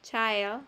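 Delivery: put-on "Child" with the vowel of "science". Shown as a demonstration. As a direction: sound out "Child" with an "eye" glide. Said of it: "como science". ("Child" con el sonido "ai" de "science")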